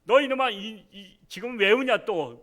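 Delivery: high, loud scolding yell; exasperated father. Retold or imitated. Father yells at the crying younger son, exasperated. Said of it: "둘째가 막 엉엉 우는 거야".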